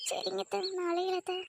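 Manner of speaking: put-on high, light young wife's voice. Wife answering her husband, in a high girlish voice. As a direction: lift into a sweet, girlish wife. Wife replying to mother-in-law.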